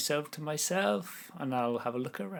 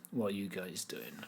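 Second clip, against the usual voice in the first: hushed, unvoiced question; whisper; 6 semitones lower, 10 dB quieter than usual. Malga's group questioned in a huddle, whispered. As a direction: whisper it so only the huddle hears. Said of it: "whispered conversation".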